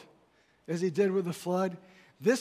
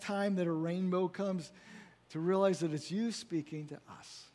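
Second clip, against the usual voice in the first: measured pastoral prayer voice. Real, not acted. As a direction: pray it over the congregation. Pastor leads closing prayer.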